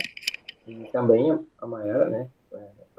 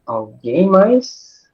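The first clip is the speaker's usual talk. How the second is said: calling out; 6 semitones higher, 11 dB louder, much slower than usual. Real, not acted. Moderator calls out to the room.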